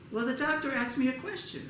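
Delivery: lightly voiced elderly mom; reluctant mother. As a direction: confess it hesitantly as Mom.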